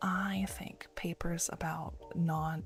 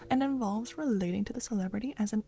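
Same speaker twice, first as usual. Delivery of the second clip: put-on Valley Girl voice; 2 semitones higher than usual. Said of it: "You redeemed Valley Girl".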